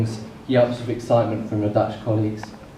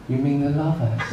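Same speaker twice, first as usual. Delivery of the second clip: calm, mock-innocent; 3 semitones higher than usual. Husband finally feigns understanding to his wife, calm and mock-innocent. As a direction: pretend innocence, gently saying "lavas". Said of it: "in the calmest voice possible".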